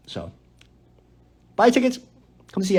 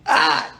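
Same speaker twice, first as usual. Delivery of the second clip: stifled sneeze gasp. Real, not acted. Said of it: "I'm holding it in".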